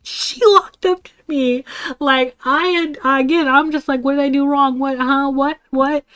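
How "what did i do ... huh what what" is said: higher-pitched, bewildered stammer of questions; confused. Retold or imitated. Student facing an angry friend, confused. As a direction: act out being totally lost. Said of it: "I'm sitting here confused".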